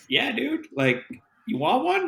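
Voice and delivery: a bar stranger's Irish or Scottish accent, played high. Guy at the bar offering a beer, in an Irish or Scottish accent. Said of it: "like, Irish or Scottish accent".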